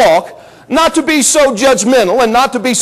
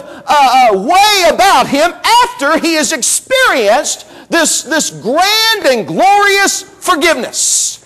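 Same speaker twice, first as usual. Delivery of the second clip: indignant master; 3 semitones higher than usual. Retold or imitated. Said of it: "He said".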